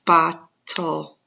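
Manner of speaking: bottle pounded out in two beats, bot and tle; pounding syllables. Shown as a demonstration. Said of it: "We're gonna say the word".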